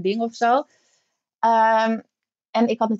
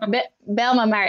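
laughing; slower than usual. Real, not acted. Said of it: "laughing at surrogacy question".

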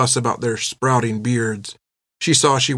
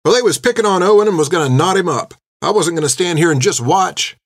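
higher, quick, earnest excuse; feigned innocent girl; 6 semitones higher, 3 dB louder than usual. A narrator's reading. Girl justifying the fight to the nun, quick feigned innocence. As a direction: rush out the excuse with put-on shock. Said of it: "explained Finn".

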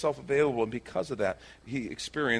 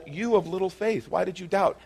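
higher-pitched rebuke at normal volume; calling out doubter; 5 semitones higher than usual. Acted. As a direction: put the reproach to him openly. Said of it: "He's called".

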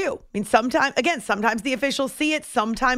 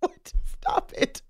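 trying not to laugh; 7 semitones higher, 6 dB quieter, slower than usual. Real, not acted. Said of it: "I'm trying to be serious".

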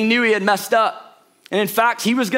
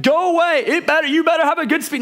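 mock yelling father; 6 semitones higher, faster than usual. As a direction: bark it like a cross dad, tongue in cheek. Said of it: "starts yelling and is like".

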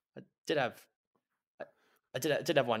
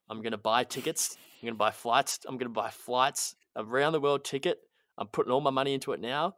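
defiant building; 5 dB louder than usual. Acted. Defiant escalating plans, getting louder.

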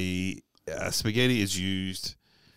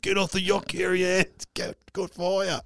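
urgent call; 8 semitones higher than usual. Retold or imitated. Yelling at Kerri Ann on burning yacht.

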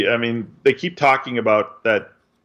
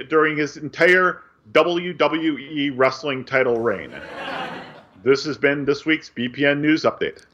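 crisp sportscast news delivery; news read; 3 semitones higher than usual. Acted. Reads the news update segment.

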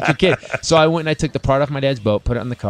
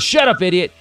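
loud, raised-pitch put-down; mock-angry dad, louder and higher; dad's rebuke; 7 semitones higher, 4 dB louder than usual. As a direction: shut the kid down like an irritated father. Dad silences son, retold.

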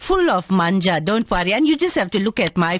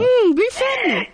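repeated catchphrase; 13 semitones higher than usual. Acted. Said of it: "Repeat value".

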